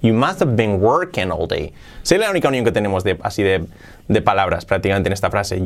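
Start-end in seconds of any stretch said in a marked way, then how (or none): 0.0-1.7 "must have" joined as "mustav"; linked words. Shown as a demonstration. Teacher shows how the union sounds, "must have" linked. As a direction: run "must have" together without the H. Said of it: "Queda así esa unión".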